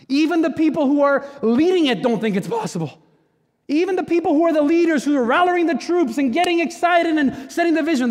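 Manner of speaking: rally the room with a rising push; full-force preaching. Real, not acted. Pastor rallying his congregation, preaching at full force.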